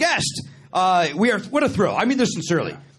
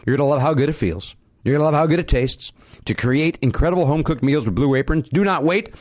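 measured, lower-pitched sponsor read; podcast ad read; 4 semitones lower, 4 dB louder than usual. Acted. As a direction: read the offer out to listeners. Reads sponsor ad.

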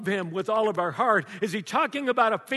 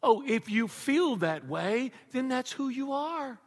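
mocking; 4 semitones higher, slower than usual. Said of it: "what they would say".

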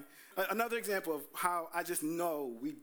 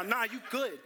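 aggressive warning; 4 semitones higher than usual. Shown as a demonstration. Husband warning off a man chasing his wife, pushing harder. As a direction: lean in on it so he backs off. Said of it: "It's aggressive now".

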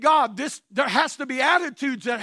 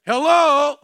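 calling out; 2 semitones higher, 7 dB louder than usual. Real, not acted. Preacher calls out to congregation.

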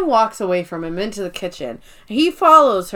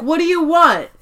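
heated; 4 semitones higher, 4 dB louder than usual. Retold or imitated. Heated Michael and Pam fight.

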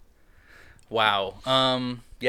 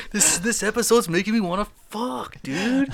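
laughing; 11 semitones higher than usual. Real, not acted. Laughing through horny joke.

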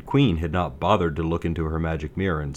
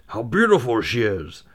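dwarves crying out; 4 semitones higher than usual. Acted. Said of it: "they all cried at once".

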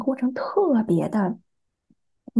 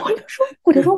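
laughing; 10 semitones higher, 6 dB louder than usual. Real, not acted. Laughs while retelling her reply.

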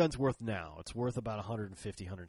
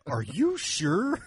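much higher, louder, slow incredulous question; doubtful craftsman; 8 semitones higher, 8 dB louder, much slower than usual. Retold or imitated. Holster maker doubts the ox blood colour, high and slow. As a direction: ask it as if he can't believe it. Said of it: "he just looks up at me".

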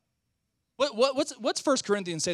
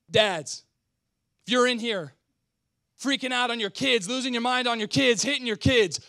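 usual speaking voice

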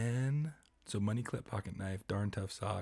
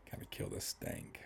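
whispering; 7 dB quieter than usual. Real, not acted. Stinky socks joke.

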